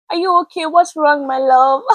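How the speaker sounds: high, loud, sugary imitation of a doting pastor; sweet pastor greeting. Pastor Ife greeting her warmly at church, imitated high and sweet. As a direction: coo it up high like a fond pastor. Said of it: "And she's like".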